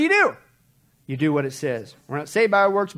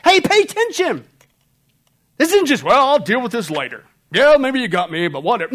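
high, loud urgent cry; preacher crying out high and loud; screaming out; 6 semitones higher, 8 dB louder than usual. Retold or imitated. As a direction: shout the warning to wake them up. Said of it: "he's screaming out from the Greek".

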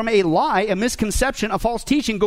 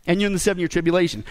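surprised disbelief. Retold or imitated. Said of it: "he's surprised at these Christians".

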